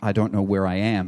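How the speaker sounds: ordinary delivery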